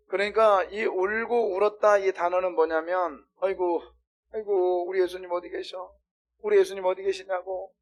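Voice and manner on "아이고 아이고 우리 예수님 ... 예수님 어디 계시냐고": understated, everyday lament; a mild "oh dear", no wailing; half-hearted moaning search for someone. Acted. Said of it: "이런 게 아니라".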